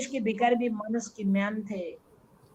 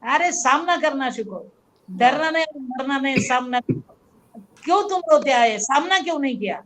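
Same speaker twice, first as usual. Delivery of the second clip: put-on father scolding child; 3 dB louder than usual. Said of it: "उन्होंने जो सिखाया".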